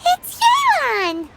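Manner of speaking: loud, slow, delighted realization; surprised exclamation. Acted. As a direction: blurt the name out as it clicks. Paimon suddenly realizes who it is.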